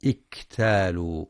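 اكتالوا with a stopped, firm ك and a breathy ك release; the ك in اكتالوا held tight then let out with air; tajweed demo. Shown as a demonstration. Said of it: "لشدة الكاف وهمسها". (الكاف في اكتالوا شديدة مهموسة)

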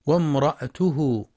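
وامرأته said wamra'tuhu, no vowel after the hamza; mistaken silent hamza. Shown as a demonstration. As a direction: stop the hamza of وامرأته straight into t. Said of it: "يقرأ بسكون الهمزة بعد الراء".

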